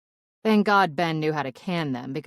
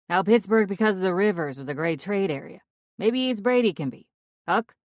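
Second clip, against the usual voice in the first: put-on higher, louder thick Pittsburgh accent; 5 semitones higher, 6 dB louder than usual. Narrator faking a Pittsburgh accent over the radio. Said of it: "in my best Pittsburgh accent".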